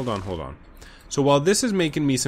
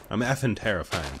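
menacing villain; 6 semitones lower, 5 dB quieter than usual. Acted. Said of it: "one's more like".

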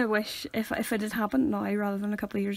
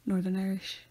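deadpan, without any feeling; emotionless deadpan; 2 semitones lower than usual. Shown as a demonstration. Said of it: "no emotion".

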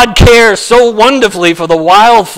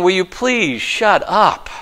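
annoyed crowd; 3 semitones lower, 6 dB quieter than usual. Retold or imitated. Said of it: "they're saying".

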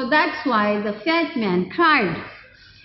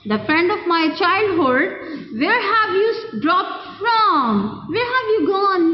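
amazed cry; 4 semitones higher than usual. Acted. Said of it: "cried the thin man in amazement".

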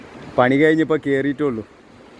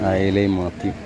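fish vendor cry; 6 semitones lower than usual. Real, not acted. Fish market calling out fish.

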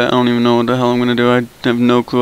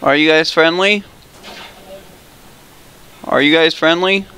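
higher squeaky put-on voice; 4 semitones higher than usual. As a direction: pitch it up into a silly squeak. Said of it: "I'm gonna go with the squeaky voice".

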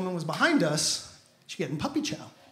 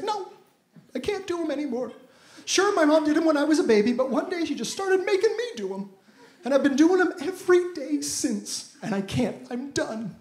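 a higher, lightly voiced girlfriend; a higher, whiny complaint about dishes; girlfriend's complaint; 5 semitones higher than usual. Girlfriend telling boyfriend she's done, higher whiny voice.

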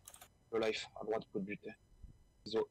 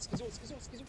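calling out; 12 semitones higher than usual. Real, not acted. Calling teammate mid-fight.

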